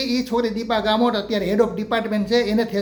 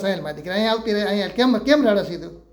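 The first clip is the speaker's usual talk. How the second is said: put-on coaxing the child; 2 semitones lower than usual. Teacher comforting a crying girl.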